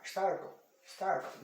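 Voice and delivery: "startle" twice, with the R-coloured vowel; English pronunciation demo. Shown as a demonstration. Teacher showing what the R changes, repeated demo of "startle". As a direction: repeat "startle" as a model word. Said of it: "Mudou um pouco por causa do R".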